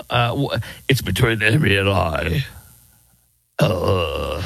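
low, halting politician impression; dropped pitch, stumbling mock excuse; mock evasive politician. Mimics the politician's evasive answer.

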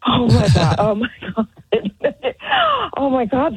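laughing it off in relief; relieved laughing. Real, not acted. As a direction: laugh out the shock. Relieved laughter after prank.

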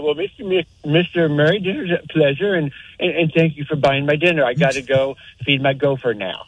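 lightly voiced cartoon gopher; a hint of a silly gopher. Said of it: "kind of in my gopher voice".

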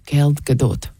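"Gal Gadot" with a hard K-like G and guh-DOOT, Israeli accent. Shown as a demonstration. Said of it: "say it with an Israeli accent".

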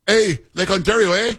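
high, bright-eyed Canadian "Hey, Lake Ontario, eh?"; mock Canadian accent. Host imitates Ontario premier again, in a high mock Canadian accent. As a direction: pitch it up like a cheery Canadian stereotype. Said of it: "that's a spot-on impersonation of this guy Ford".

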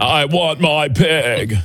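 slow, put-on Nicolas Cage voice; Nicolas Cage impression. Host shows the crew his slow Nicolas Cage impression. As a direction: drag the line out like Nicolas Cage. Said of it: "That's my Nicolas Cage impersonation".

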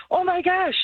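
high-pitched mock panic; retold freak-out. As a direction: relive the alarm, pitch shooting up. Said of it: "I'm freaking out".

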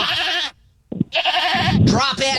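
high-pitched commands to a goat; commanding goats. Acted. Caller yelling at imaginary goats to drop a pillow, high and sharp. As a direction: order the goat off like a dog trainer.

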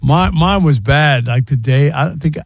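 slow raspy worn voice; hoarse from days of talking. Real, not acted. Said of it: "His whole voice sounds like sin".

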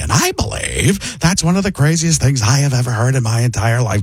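lightly voiced weary man; Paul Giamatti. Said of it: "it becomes Paul Giamatti".

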